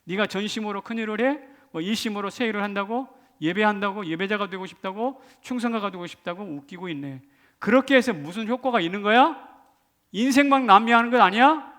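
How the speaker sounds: mocking jeer, rising questions; scornful needling from the sidelines; sneering. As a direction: jeer at the believer in incredulous questions. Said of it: "막 옆에서 비아냥거리는 거예요".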